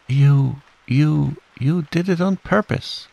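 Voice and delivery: high, stammered accusation; spluttering. A narrator's reading. Piglet accuses Kanga after a soapy mouthful, spluttering and high. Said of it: "spluttered Piglet as soon as he could speak".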